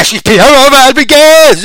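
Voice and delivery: slow, loud announcer call of the name; ring announcer. Acted. Announcing a pick.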